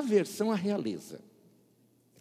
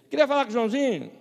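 quick casual request; 6 semitones higher, 6 dB louder, faster than usual. Retold or imitated. Phone call to church.

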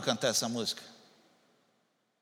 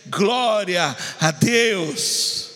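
loud, drawn-out shout of praise; slow, emphatic acclamation; exclaimed praise; 5 semitones higher, 7 dB louder, much slower than usual. Acted. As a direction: stretch each word in a ringing cry. Models exclamation of praise to congregation.

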